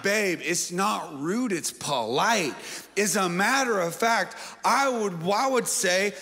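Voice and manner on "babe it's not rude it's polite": coaxing reply to wife. Retold or imitated. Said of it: "And I'm like".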